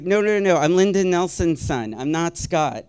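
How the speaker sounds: high, loud, hasty mock correction; alarmed protest. Man mistaken for his cousin protesting, alarmed. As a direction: rush in to set the record straight.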